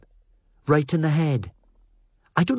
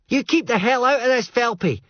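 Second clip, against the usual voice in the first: much higher, raging threat; furious yell; 14 semitones higher than usual. Acted. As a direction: shout him down, wild and drunk. Fraser yelling at Felpy.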